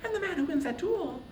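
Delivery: high, hushed whisper close to the ear; whispering goddess. A narrator's reading. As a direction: lean in and whisper it urgently, coaxing. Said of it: "brushed close and whispered".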